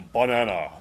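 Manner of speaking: "Banana" with a flat American middle A, as in "cat"; mock repeat of "Banana" the American way; retold American banana. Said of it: "kept saying".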